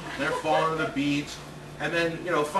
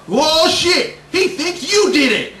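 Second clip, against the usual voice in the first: much louder and higher, laughing; panicked laughing yell; 9 semitones higher, 10 dB louder, slower than usual. Retold or imitated. Old guy panicking.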